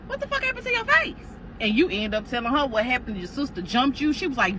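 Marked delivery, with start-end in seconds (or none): 0.1-1.3 high, shocked outcry; shocked question. Retold or imitated. Friend Kiara sees the bruised face, shocked. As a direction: gasp it out, horrified.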